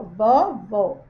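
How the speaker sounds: "vovó" with a wide-open, drawn-out ó; open vowel. Shown as a demonstration. Teacher shows pupils the acute accent, "vovó" with open ó. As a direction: open the final ó of "vovó" clearly and slowly. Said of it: "a gente não fala ele de uma forma mais aberta".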